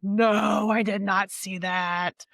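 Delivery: imitating shocked readers, drawn-out "no"; mock shock. Reader retelling how everyone with the ARC reacted, mock shock. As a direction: retell the group's stunned disbelief, lightly played. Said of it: "we were all shocked".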